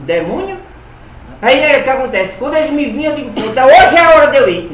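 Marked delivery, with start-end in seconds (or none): 3.3-4.7 eager to go. Retold or imitated. Child eager to leave with spirit family.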